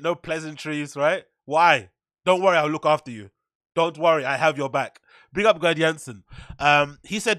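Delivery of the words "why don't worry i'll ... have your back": matter-of-fact mock German, no niceties; blunt German accent, louder and firm; cold German accent. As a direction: do a curt, businesslike German accent. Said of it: "matter of fact, cold".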